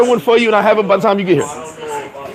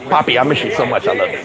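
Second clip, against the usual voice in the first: lower, softer lovey-dovey quote; mock lovesick ex; 7 semitones lower, 4 dB quieter than usual. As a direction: imitate her pining message, dropped low and soft. Acts out ex's lovesick message.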